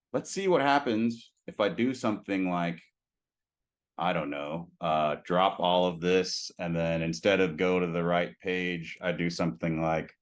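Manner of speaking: talking around a pin held in the mouth. Real, not acted. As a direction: speak with a pin between the lips. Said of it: "I have a pin in my mouth".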